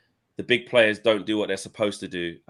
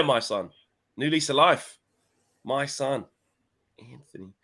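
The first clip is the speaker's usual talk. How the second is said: playful put-on Australian accent, pitched up then dropping to a whisper; jokey Aussie pundit patter; silly Aussie voice; 5 semitones higher than usual. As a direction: hype the player in a mock Australian accent. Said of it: "in that voice come from".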